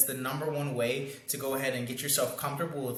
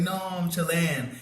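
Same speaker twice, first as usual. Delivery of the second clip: put-on girl's playful correction; 4 semitones higher, slower than usual. Coach voices a girl correcting him.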